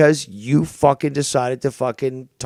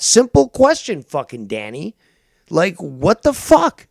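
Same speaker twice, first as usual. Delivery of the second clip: louder, higher, heated demands; angry yelling; 4 semitones higher, 4 dB louder than usual. Real, not acted. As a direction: yell the questions at him. Host yelling at caller.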